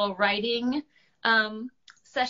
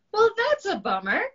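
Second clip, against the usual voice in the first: disappointed Dragon; 12 semitones higher, 6 dB louder than usual. Acted.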